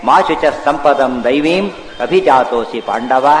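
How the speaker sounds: slow, drawn-out Sanskrit verse; verse recitation. Retold or imitated. Preacher quoting Krishna's answer to Arjuna, slow verse recitation. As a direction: recite it measuredly with long vowels.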